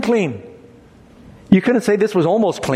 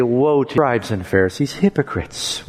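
tearful; 5 semitones lower than usual. Shown as a demonstration. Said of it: "with tears in his voice".

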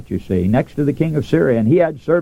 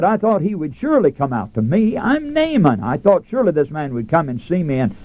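wrathful Naaman; 3 semitones higher than usual. Retold or imitated. Naaman complaining the prophet ignored him, indignant. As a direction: play the insulted general, offended pride. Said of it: "Naaman was wroth".

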